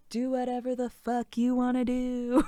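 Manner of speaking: lightly voiced blunt old granny; a hint of a gruff grandma giving blunt advice; mock granny wisdom; Grammy Dukes voice. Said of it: "hear Grammy Dukes in your head saying".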